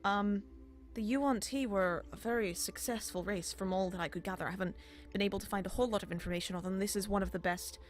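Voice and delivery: a busy librarian looking up from her work; flustered elf scholar. Acted.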